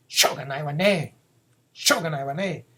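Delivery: exasperated fond sigh of a mother; resigned motherly tut; a mother sighing at her son. Acted. Mother sighing over her naughty son. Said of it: "a mother tells this to her son".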